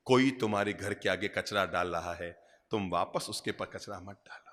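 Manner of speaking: low, soft, solemn teaching; gentle counsel. Real, not acted. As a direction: pass on holy advice softly and low. Gently passes on God's teaching. (नीची, कोमल आवाज़ में उपदेश)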